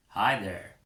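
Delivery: easy American drawl greeting; American accent, relaxed hello. Acted. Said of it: "in an American accent".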